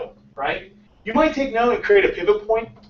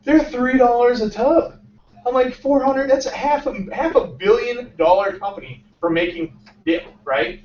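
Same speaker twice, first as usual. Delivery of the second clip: stunned disbelief; 5 semitones higher than usual. Retold or imitated. Founder realizing the hummus market's size, in stunned disbelief. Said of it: "And I was like".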